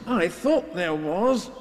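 dopey unhurried bear reply; Pooh. A narrator's reading. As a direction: answer placidly, drawing it out. Pooh answers Piglet.

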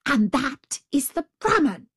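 high, emphatic pointing-out; exasperated tiger. A narrator's reading. Tiger explaining to the jackal, exasperated. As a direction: spell it out crossly. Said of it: "in a rage".

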